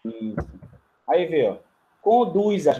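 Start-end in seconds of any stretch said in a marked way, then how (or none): 2.0-2.8 "Conduz-as" raised in pitch, the Z sounded before "as"; awkward uncontracted form. Shown as a demonstration. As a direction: show off the odd Z in "Conduz-as". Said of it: "Vê como ia ficar estranho". ("Conduz-as" com o Z, soando estranho)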